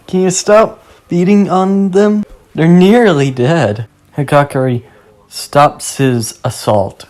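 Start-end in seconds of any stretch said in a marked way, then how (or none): 0.1-3.9 higher, louder, cheery request; cheerful. A narrator's reading. Passing stranger interrupts a brutal beating, cheerfully confident. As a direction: speak up brightly and confidently. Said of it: "cheerfully saying".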